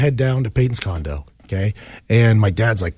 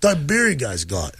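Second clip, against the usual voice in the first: eager dad; 7 semitones higher than usual. Retold or imitated. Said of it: "My dad goes".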